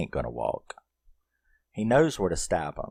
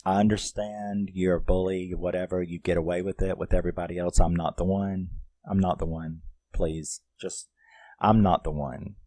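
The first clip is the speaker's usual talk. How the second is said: level, understated firmness; calmly standing your ground; calm warning. Acted. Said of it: "you just calmly say".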